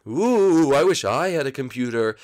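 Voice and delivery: a little ghost sighing with envy; wistful ghost. Acted. Blimpy longs for a computer of his own.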